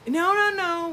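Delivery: high, far-off imitation of a dismissive clerk; mock clerk brush-off. Retelling the post office clerk's refusal, in a high mocking voice. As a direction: play the clerk waving her away.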